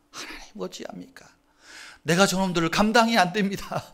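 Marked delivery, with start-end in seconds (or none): 0.1-1.3 hushed plea to God; whispered prayer. Retold or imitated. Moses whispering his plea to God. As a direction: breathe the prayer out quietly.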